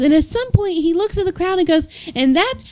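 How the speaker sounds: high-pitched mock yell with drunken gusto; lightly mimicked tipsy proclamation; the speaker's drunken-man fervor. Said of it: "yelling it with the fervor of a drunken man".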